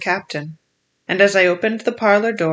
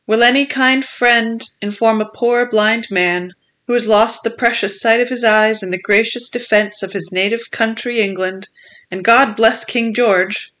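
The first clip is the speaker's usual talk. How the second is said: odd sing-song; 3 semitones higher than usual. Acted. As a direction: chant it like a whining blind beggar. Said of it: "raising his voice in an odd sing-song".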